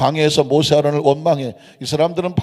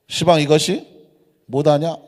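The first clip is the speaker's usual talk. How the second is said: Jeolla accent with dialect question ending. Shown as a demonstration. Preacher puts the verse into Jeolla speech for the congregation, Jeolla accent. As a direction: say it like a Jeolla local. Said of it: "전라도 말로".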